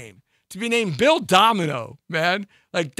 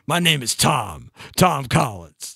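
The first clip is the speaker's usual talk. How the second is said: suave intro; 4 semitones lower, slower than usual. Retold or imitated. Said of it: "that kind of silly stuff".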